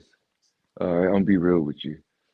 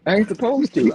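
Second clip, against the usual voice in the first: coy; 11 semitones higher than usual. Pretend. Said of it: "I'm gonna play like a woman".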